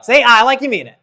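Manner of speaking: loud, high urging; emphatic rallying call. Real, not acted. Coach demanding a stronger answer from the audience, loud and emphatic. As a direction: fire up the crowd.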